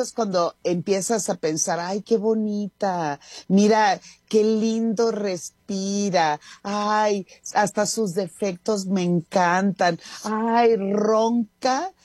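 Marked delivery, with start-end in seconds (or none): 1.8-11.9 slow, drawn-out swooning over someone; mock lovestruck. Radio host acts out someone falling in love, mock lovestruck. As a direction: play-act being smitten, stretching the key words.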